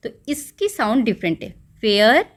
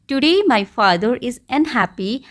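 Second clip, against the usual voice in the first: slow model sentence; 3 semitones higher, much slower than usual. Shown as a demonstration. Teacher slowly modelling the story opening for pupils. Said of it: "You may start like this".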